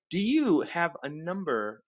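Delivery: talking around a pen in the mouth; words muffled by a pen. Real, not acted. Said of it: "I got a pen in my mouth".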